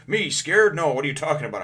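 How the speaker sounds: high, loud "who, me?" protest; indignant denial. Retold or imitated. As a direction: play offended surprise. Usopp denies being scared.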